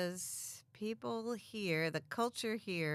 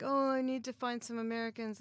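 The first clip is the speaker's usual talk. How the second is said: mocking whiny voice; 6 semitones higher than usual. Mocking newcomers' quote.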